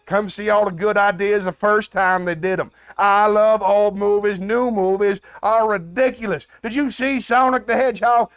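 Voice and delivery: indignant rant at full voice; worked-up yelling. Acted. Host berates a Zoomer for skipping classics, yelling. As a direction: plead loudly, stretching the key words. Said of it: "perhaps I'm yelling too much".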